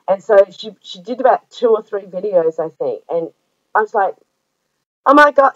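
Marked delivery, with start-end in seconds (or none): 5.1-5.5 higher, louder mock amazement; retold excited gasp. Watching Amanda's video, retold amazement. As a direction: relive the on-camera surprise. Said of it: "I'm on the other end of the camera going".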